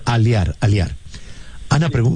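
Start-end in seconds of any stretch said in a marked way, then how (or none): 0.1-0.9 Aliar twice, each as ah-lee-AR; repeating the corrected name. Shown as a demonstration. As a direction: echo "Aliar" with a separate i vowel. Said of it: "is correct the pronuncia".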